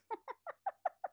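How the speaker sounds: bright burst of laughter; high giggle. Real, not acted. Reader laughs.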